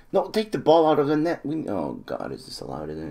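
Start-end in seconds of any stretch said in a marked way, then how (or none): 0.1-1.7 excited urging. Real, not acted. Urging team after the goal.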